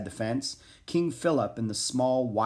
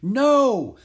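high, loud shout; shouted protest; 13 semitones higher, 10 dB louder than usual. A narrator's reading. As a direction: shout to stop them at once. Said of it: "shouted Alexander again".

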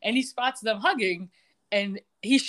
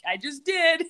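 mock shout; 8 semitones higher than usual. Michael's smug retort in recap.

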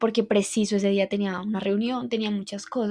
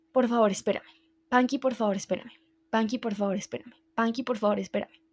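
desperate pleading. Retold or imitated. To her dog Panky, begging him to wait, a retold tearful plea. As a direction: beg again and again, the voice dropping away at every line end. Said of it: "llorando desesperadamente".

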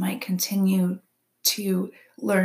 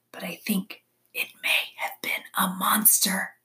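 hushed suspicion; 3 dB quieter than usual. A narrator's reading. Owl warns the gathered animals of a monster, hushed. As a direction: confide it under your breath, spooked.

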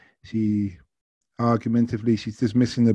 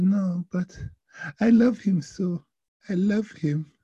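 high, lovesick mock French accent; attempted French accent; 10 semitones higher, slower than usual. Passenger declaring love to driver, high French accent. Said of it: "I will try my best".

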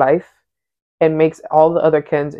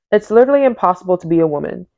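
reading aloud. Acted. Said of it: "I'm gonna read".

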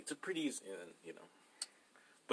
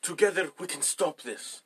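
Big Man Tyrone; 4 semitones higher, 5 dB louder than usual. Acted. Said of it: "Do the Africa thing".

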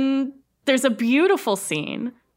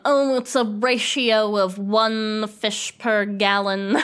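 pretentious; slower than usual. Retold or imitated. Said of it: "some pretentious thing like".

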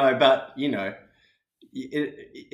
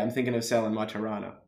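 softer Australian model line; Australian accent; 5 dB quieter, faster than usual. Shown as a demonstration. Breaking down the last phrase for the learner, Australian accent. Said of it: "I'm breaking it down".

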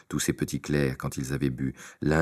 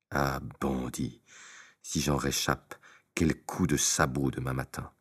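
rancune sourde; 2 semitones lower, 6 dB quieter than usual. Acted. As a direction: menace à voix basse, lente. La mule rumine sa vengeance. (la mule menace Tistet à voix basse)

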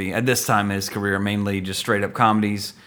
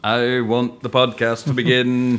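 mock movie line; 2 semitones higher, slower than usual. Mock film quote.

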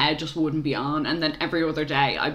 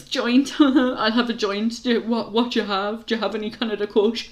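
lightly mocking, higher-pitched customer voice; joking customer; 4 semitones higher than usual. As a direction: imitate a customer pleased with their own joke. Mimicking customers' tired jokes.

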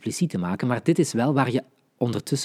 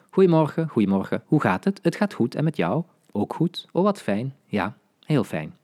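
reading the dialogue. Shown as a demonstration. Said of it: "ik zeg nog heel even kort dat dialoogje".

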